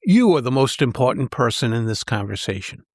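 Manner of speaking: emphatic "You", everything after it unstressed; stress on YOU. Shown as a demonstration. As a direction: punch the opening "You", then let the line fall. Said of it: "Say this sentence out loud".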